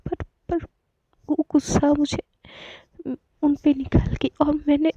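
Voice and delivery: put-on a girl admitting she snapped at someone in anger, tearful; tearful confession. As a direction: stammer it out, choking on regret. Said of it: "चीख के रोने लगती है".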